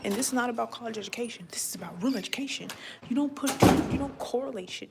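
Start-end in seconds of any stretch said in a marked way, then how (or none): 0.0-2.7 sudden whisper, the first line rushed; whispered aside. Real, not acted. Telling viewers what real education is, whispering. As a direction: lean in and whisper it like a secret.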